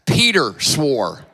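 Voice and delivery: laughing through the words; laughing flub. Real, not acted. Preacher laughing at his own misreading. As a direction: chuckle at your own slip.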